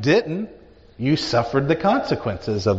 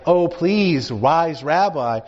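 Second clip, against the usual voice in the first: mock pleading; 4 semitones higher than usual. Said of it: "they were like".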